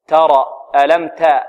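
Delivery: light t with plain a in "ترى"; correct middle fatha. Shown as a demonstration. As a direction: keep "تا" open, not tilted to e. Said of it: "الصحيح تا". ("تا" بفتح متوسط)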